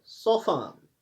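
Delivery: सोफान with no T after the F; silent T. Shown as a demonstration. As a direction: say सोफान, skipping the T. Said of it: "हम सॉफ्ट नहीं पढ़ते हैं".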